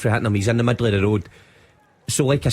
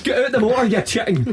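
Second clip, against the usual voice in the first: high, jeering call of "you chicken"; mock taunt; 10 semitones higher than usual. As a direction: taunt him like a playground bully. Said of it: "called me a chicken".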